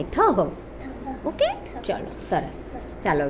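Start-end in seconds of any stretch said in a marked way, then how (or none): 0.0-0.4 થહ said as tha with a breathy aspirated h at the end; demonstrating a syllable. Shown as a demonstration. Teacher shows children the sound, voicing થહ with a clear trailing h. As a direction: add a clear breathy h right after the tha in થહ. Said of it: "થની પાછળ અહ એમ બોલાય".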